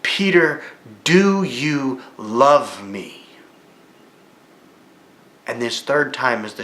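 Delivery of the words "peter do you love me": a slow, drawn-out Peter, do you love me; earnest, searching. Retold or imitated. Jesus asks Peter a third time, slow and earnest. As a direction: ask it slowly, eye to eye, demanding full attention. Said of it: "looked at him directly in the eyes".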